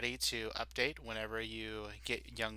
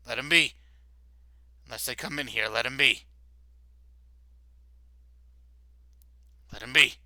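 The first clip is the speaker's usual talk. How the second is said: insisting guard; 8 dB louder, faster than usual. Acted.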